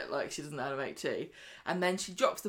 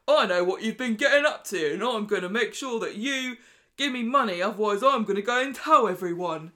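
put-on southern accent, much louder and higher all through; 4 semitones higher, 8 dB louder than usual. Rufus demands money from Stephen, in a loud southern accent. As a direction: bellow the threat in a southern accent. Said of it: "I wanted to do Rufus's accent".

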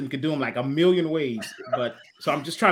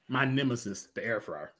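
mock dramatic daughter; 6 semitones lower, 9 dB quieter than usual. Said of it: "she's like".

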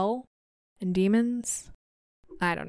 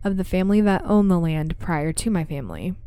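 measured, even read-aloud storytelling; story narration. A narrator's reading. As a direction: tell an eerie true account, pausing between phrases.

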